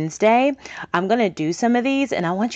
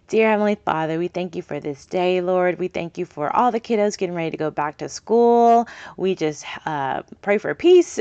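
prayer. Acted. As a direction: pray the class out gently. Closing prayer.

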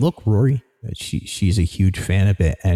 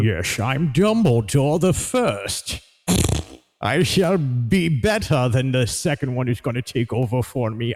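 mock wizard voice; 2 semitones higher than usual. Voicing Dumbledore jokingly.

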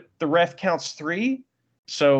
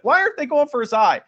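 excited shout; 8 semitones higher, 5 dB louder, faster than usual. Retold or imitated. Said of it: "I was like".

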